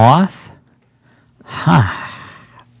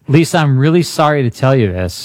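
lightly voiced, lower-pitched doctor; doctor breaking news; 4 semitones lower than usual. Host as Lisa's doctor breaking bad news, mock solemn. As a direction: play a doctor delivering a diagnosis. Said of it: "Here's Lisa's doctor".

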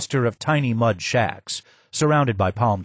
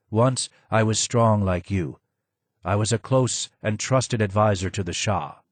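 low and hoarse. Acted. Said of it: "was low and hoarse".

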